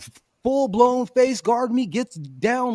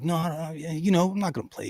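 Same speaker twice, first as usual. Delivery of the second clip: cold brush-off; 3 semitones lower, 6 dB quieter, faster than usual. Retold or imitated. Imagined cold refusal.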